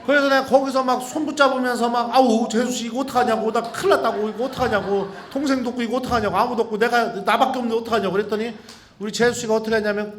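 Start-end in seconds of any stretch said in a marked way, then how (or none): 2.2-8.1 higher, louder, fast panic; panicked fretting. Retold or imitated. Priest panicking beside his sister-in-law in labour. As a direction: babbles in a helpless fluster.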